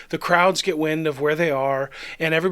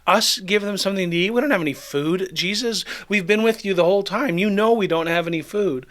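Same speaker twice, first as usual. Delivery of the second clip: stunned; 3 semitones higher than usual. Acted. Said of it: "you can imagine they're stunned".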